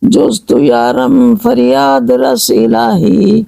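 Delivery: slow, drawn-out prayerful recitation; slow supplication; devotional verse recital. Acted. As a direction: intone the Persian couplet slowly, pleading. Recites Persian munajat verse.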